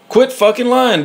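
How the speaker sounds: accusing a partner of lying, voice jumps up; angry outburst. Real, not acted. Angry phone rant at partner.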